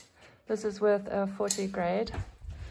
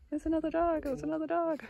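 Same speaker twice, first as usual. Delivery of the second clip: lightly voiced fretful dog, higher; voicing the upset dog; 8 semitones higher, faster than usual. Owner voicing her upset dog, higher, mock alarm. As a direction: play the dog's alarm, pitched up. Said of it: "Emma is so upset".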